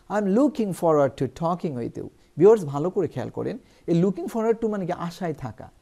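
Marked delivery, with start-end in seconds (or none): 0.1-2.1 slow, careful English example; slow model sentence. Shown as a demonstration. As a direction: read it slowly for learners. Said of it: "যেমন আমরা বলতে পারি".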